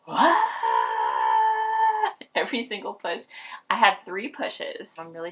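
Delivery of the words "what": high, loud startled what; jolted by pain and surprise; shocked cry. Retold or imitated. Mother cries out mid-push, high and startled. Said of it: "I'm like".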